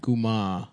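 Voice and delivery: guma with no final r. Shown as a demonstration. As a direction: say guma, dropping the r. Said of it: "you just go guma".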